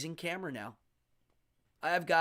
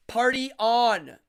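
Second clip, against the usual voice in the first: catchphrase sign-off; 6 semitones higher, 10 dB louder, slower than usual. Acted.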